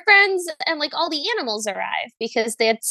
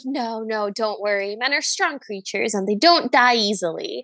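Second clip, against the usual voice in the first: reassuring Cinderella; 3 semitones lower than usual. Retold or imitated. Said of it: "Cinderella's like".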